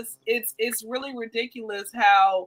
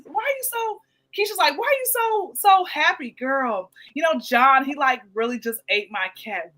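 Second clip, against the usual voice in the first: gossiping coworkers; 2 semitones higher than usual. Retold or imitated. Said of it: "she's like".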